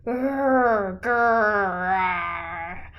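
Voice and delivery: low lightly voiced bear growls; low muttered bear growls. A narrator's reading. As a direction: grumble like a bear under your breath. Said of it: "Old Bear muttered and growled".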